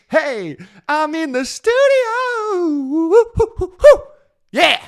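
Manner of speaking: loud, high hype whoops; excited whooping. Real, not acted. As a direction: whoop like you're hyped in the studio. Hyped in the studio, whooping.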